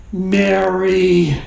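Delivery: drawn-out "Mary", called out mildly; mock calling out. Jesus calling Mary by name at the tomb, mildly called out. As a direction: call the name out, stretching it. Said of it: "whether it was a shout or a whisper".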